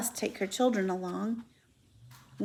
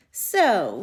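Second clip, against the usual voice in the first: disgusted; 6 dB louder than usual. Acted. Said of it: "he said in disgust".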